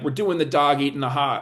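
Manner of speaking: put-on Brooklyn accent. Recalling an executive producer entering the writers' room, imitating Joe Davola's Brooklyn accent. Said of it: "He had an accent".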